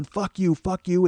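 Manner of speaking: lightly acted angry yell; dad yelling. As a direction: imitate an angry father cursing back. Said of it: "And he's yelling".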